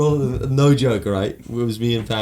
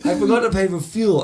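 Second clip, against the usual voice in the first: high through laughter; laughing; 11 semitones higher, 4 dB louder than usual. Real, not acted. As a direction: blurt it out laughing. Laughing while telling.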